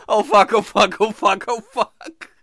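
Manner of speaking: mounting dread, slowing down; panicked. Retold or imitated. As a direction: realize the horror in panic. Panicking morning after.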